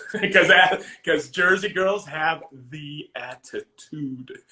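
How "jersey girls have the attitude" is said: slow, stretched "the attitude"; emphatic, drawn out. Real, not acted. Husband praising his Jersey wife's attitude, slow emphasis. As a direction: draw out each word of "the attitude".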